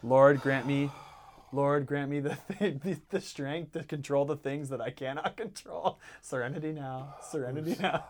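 soft, quiet mock serenity prayer; calm yourself down in a hushed mantra; hushed pretend prayer for patience. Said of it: "what do we say".

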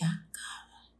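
unvoiced, stunned whisper to herself; whispered curse. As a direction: hiss it under your breath in disbelief. Realizes inside, to herself. (susurro incrédulo para sí misma)

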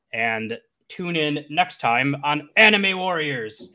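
theatrical narrator closing an episode; anime narrator. Acted. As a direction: announce the story like a show narrator. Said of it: "the narrator goes".

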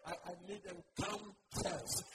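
soft, low mock congregant; hushed imitation of a self-declared faith person; imitated church member. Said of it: "Oh, you say".

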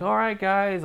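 high, loud chirpy guide voice; mock tour guide. Imitating tour guides rallying the group, high and chirpy. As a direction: mimic a peppy tour guide calling the group.

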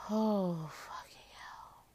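breathless whispered swearing; barely voiced, under the breath; whispered curse. Real, not acted. Groggy from cold medicine, swearing.

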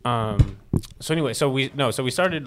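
speaking from further back off the mic; far from the mic. Real, not acted. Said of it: "Speak, like, this far away".

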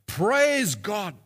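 mild mock praise shout; retold joyful shout. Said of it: "raise her arms to the sky and shout".

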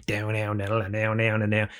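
imitated intro music. Imitating the opening of Joe Rogan's show, mock intro music. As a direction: drone out an intro riff. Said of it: "you listen to Joe Rogan".

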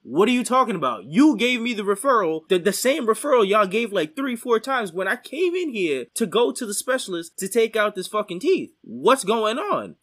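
heated retelling of an outraged retort; angry retort. Retold or imitated. Patient confronting the dentist over the referral, angry retort.

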